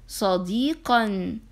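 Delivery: صديقا joined, slow and drawn; slow blended word. Shown as a demonstration. Teacher to class, slowly blending صديقا. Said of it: "هيا نقرأ الكلمة".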